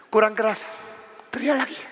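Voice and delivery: soft, understated mockery; mock them quietly, barely pushing; sarcastic taunt. Elias taunting Baal's prophets, softly sarcastic.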